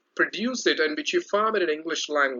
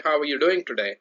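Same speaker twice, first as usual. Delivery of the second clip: dull, no energy; faster than usual. Shown as a demonstration. Teacher demonstrates the dull way to greet, flat and dull. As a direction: say it dully, without energy. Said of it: "it sounds so dull with no energy".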